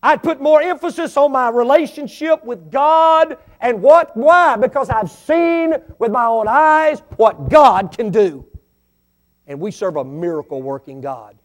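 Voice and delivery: loud, high, rising preacher cry; preaching at full force. Real, not acted. Pastor testifying to the church at full force, loud and high. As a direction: build it to a shout.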